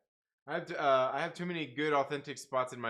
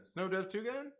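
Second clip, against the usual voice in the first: quieter, rising, puzzled reread; puzzled question; 5 semitones higher, 4 dB quieter than usual. Real, not acted. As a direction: ask it, baffled.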